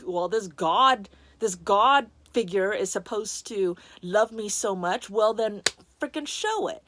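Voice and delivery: mock-frustrated challenge to God; daring God to prove it, mildly heated; retold angry challenge. Speaker retelling an angry challenge to God, mildly fed up. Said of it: "and I was angry".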